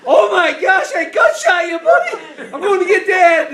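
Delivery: loud, high frantic cry; hammed-up alarm; retold panic. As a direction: blurt it out in mock horror. Retold panic over wounded cousin.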